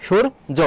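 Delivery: সূর্য in two parts, "shur - jo"; split-syllable pronunciation. Shown as a demonstration. Teacher giving the correct pronunciation answer, split syllables. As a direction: break সূর্য after the r, "shur", then "jo". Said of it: "সঠিক উত্তর হবে".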